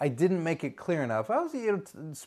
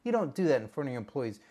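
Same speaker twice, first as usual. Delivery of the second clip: ordinary talk, nothing marked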